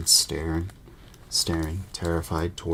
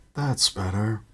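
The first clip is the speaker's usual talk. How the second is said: out of breath; 5 semitones higher, 3 dB louder than usual. Acted. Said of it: "panted Mister Weasley".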